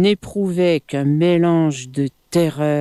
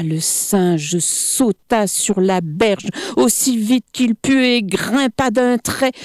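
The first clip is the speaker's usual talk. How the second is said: ordinary delivery, nothing marked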